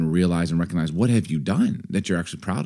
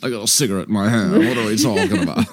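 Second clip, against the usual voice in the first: put-on quick, teasing New Jersey accent; New Jersey girl. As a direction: imitate a smoking New York-New Jersey gal. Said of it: "New York, New Jersey girl".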